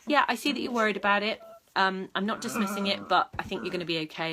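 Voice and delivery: matter-of-fact, steady reassurance; calm reassurance. Shown as a demonstration. Owner calmly reassuring her worried dog, matter-of-fact. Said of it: "that reassurance of the adult".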